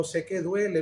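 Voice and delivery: hushed reassurance; gentle reply. Retold or imitated. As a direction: answer like a comforting Christ. Jesus answers gently.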